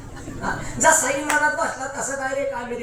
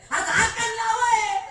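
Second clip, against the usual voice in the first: higher, impatient American officer; impatient official; 10 semitones higher, 5 dB louder, slower than usual. Retold or imitated. American officer orders the Indian boy to close the jar, impatient and higher. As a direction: hurry him, a lightly voiced foreign officer.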